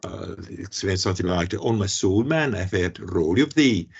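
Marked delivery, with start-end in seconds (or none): 1.5-3.9 attempted Scottish accent for a royal exclamation; a clumsy stab at a Scots king; bad Scottish accent. Lecturer quoting King James on first meeting Raleigh, bad Scottish accent. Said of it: "that was a bad accent, uh, in, in Scottish accent".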